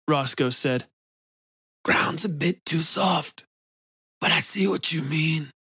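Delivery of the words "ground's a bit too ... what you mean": Roscoe's voice. A narrator's reading. Roscoe's creepy calm voice.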